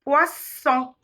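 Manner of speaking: "Poisson" ending on a clear nasal ON. Shown as a demonstration. Teacher models nasal vowels, "Poisson" with nasal ON. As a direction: let "Poisson" end through the nose, no N. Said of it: "Et les voyelles nasales".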